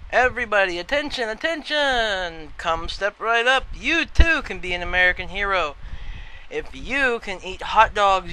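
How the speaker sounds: put-on old-time bullhorn announcer calling the crowd; loud carnival barker. Shown as a demonstration. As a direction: hawk it like a fairground barker. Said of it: "As, uh, goes something like this".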